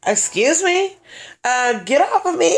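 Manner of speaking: high-pitched airhead protest; dumb blonde. Retold or imitated. Fending off his advances at the hotel, dumb blonde act. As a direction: play a ditzy blonde, mock-offended. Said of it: "You know, dumb blonde".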